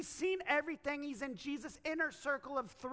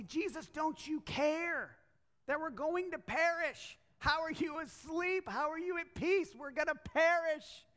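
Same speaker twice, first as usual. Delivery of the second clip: alarmed plea; 5 semitones higher than usual. Acted. Disciples waking their master in the storm, alarmed plea. Disciples in danger wake Jesus.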